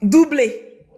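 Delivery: slow, emphatic announcer call; annonce triomphale. Acted. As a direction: proclaim it like a sports commentator. Annonce comme un commentateur. (proclamation de commentateur sportif)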